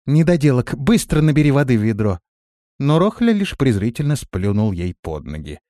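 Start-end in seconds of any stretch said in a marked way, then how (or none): 0.1-2.2 громче, быстро, командно; рявкнуть приказ слуге; резкий приказ. A narrator's reading. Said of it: "Биота приказала". (резко приказывая)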